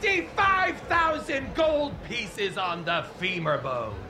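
crazed gambler's holler, dying away; Sweet Prince Vantis. Acted. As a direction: shout a wild bet from across the casino. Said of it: "I know that crazy voice anywhere".

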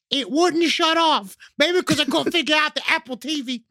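lightly acted eyewitness account; homeowner recounting a haunting. Reads homeowner's newspaper account.

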